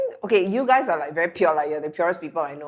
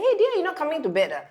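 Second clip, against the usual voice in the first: sweet coaxing; 10 semitones higher, much faster than usual. Retold or imitated. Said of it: "So I just go to him and say".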